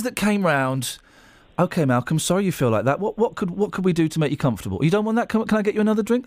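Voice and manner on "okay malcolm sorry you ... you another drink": soothing nurse humoring a grumpy patient; calm nurse voice. Retold or imitated. Retelling the nurses soothing his dying dad, mildly calm. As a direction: gently reassure a dying man, lightly imitated. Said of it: "how do you lot stay so calm".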